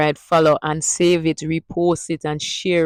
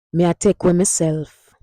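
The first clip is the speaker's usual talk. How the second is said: Jamaican Patois sentence; 3 dB louder than usual. Shown as a demonstration. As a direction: demo line in Jamaican Patois. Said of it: "Next one now".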